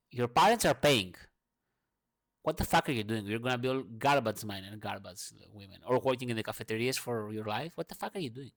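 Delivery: retold angry teacher. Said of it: "he was so mad".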